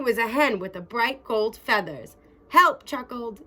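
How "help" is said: high, loud desperate cry; captured hen crying for help. Acted. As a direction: yelp out for help.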